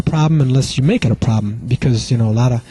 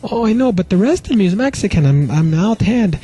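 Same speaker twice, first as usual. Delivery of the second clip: put-on pleading boyfriend; 8 semitones higher than usual. He defends himself to girlfriend.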